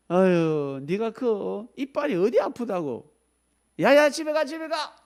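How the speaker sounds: slow scorn then very high loud shoo; mock rude doctor. Doctor to child patient, shooing away.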